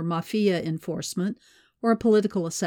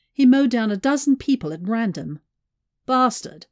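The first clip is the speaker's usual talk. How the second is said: higher, louder, indignant outburst; bitter anger; 4 semitones higher, 6 dB louder than usual. A narrator's reading. Mai tells Alexei of the cemetery gunman, bitterly angry. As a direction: spit out the final word in disgust.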